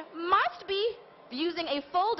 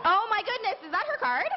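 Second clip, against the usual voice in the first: higher, delighted surprise; surprised; 6 semitones higher than usual. Acted. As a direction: gasp it out in amazement. The card is finally revealed.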